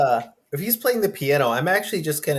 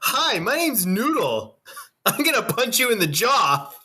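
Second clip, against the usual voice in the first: high slow squeaky voice; squeaky falsetto mockery; 10 semitones higher than usual. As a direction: pitch way up, drawn out. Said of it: "I can be Noodle".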